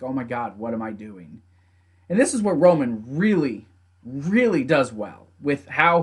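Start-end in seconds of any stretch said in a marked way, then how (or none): 0.0-1.4 soft, low voiced thought; hushed realisation. Roman stopping and doubting himself, hushed realisation. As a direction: imitate someone stunned at himself, under the breath.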